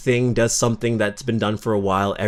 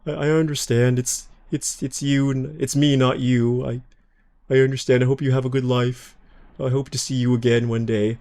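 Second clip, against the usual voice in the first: sad goodbye; 3 semitones higher than usual. Pretend. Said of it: "They give you this really sad goodbye".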